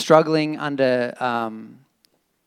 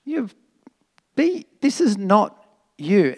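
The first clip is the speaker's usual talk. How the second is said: gentle wise words; 3 semitones higher than usual. Retold or imitated. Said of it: "he said".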